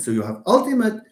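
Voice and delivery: 把重音放在 ultimate 的最后; stress on last syllable. Shown as a demonstration. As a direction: say ultimate as a clear example. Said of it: "next to it is penultimate".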